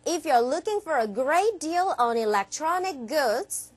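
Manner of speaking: slow, measured English ad read; deliberate ad copy with lifted list items; advertisement read. Shown as a demonstration. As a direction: model a shop advert for learners. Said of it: "이렇게 읽어주시는 광고문입니다".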